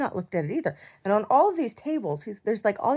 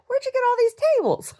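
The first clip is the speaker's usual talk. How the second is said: high mock yell; 6 dB louder than usual. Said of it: "I said, I said".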